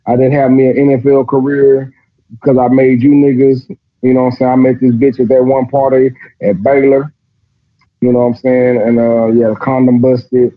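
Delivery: a hint of a regretful deadbeat God shrugging it off; lazy-sounding God. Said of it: "Y'all see how that shit sound".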